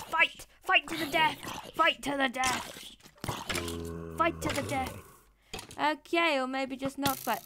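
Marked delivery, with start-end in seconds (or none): 0.0-4.9 battle cry. Pretend.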